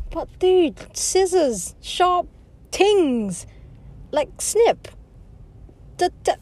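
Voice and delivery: hammed-up horror at the idea; excited protest. She warns the guy about scissors, loud mock alarm.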